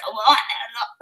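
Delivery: imitated strangled, wordless croak of a lost voice; robotic voice-loss noise. Shown as a demonstration. Mother showing how she talked like a robot, imitated voice-loss noise. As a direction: make the noise of a closing throat trying to talk. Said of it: "like that".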